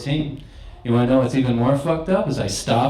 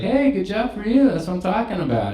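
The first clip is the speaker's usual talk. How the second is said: high excited congrats; cheering; 10 semitones higher than usual. Retold or imitated. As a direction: cheer him on, pitched up. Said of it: "I was like".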